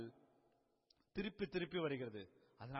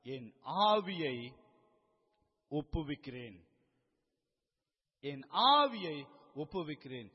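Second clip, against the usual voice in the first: measured, raised declaration with long pauses; loud cry, retold; 6 dB louder than usual. Preacher quoting Jesus committing his spirit, raised voice. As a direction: proclaim it with a loud swell mid-phrase. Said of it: "மகா சத்தமாய் சொல்லுகிறார்".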